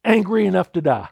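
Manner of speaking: retold prophet venting anger at God; angry outburst. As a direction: press out Jonah's anger at God. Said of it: "Jonah just finally erupts".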